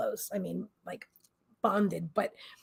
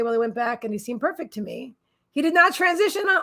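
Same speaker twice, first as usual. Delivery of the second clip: ordinary talk, nothing marked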